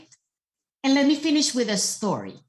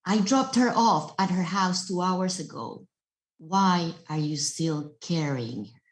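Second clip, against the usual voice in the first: calm master; 3 semitones lower than usual. Acted. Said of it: "this was his answer".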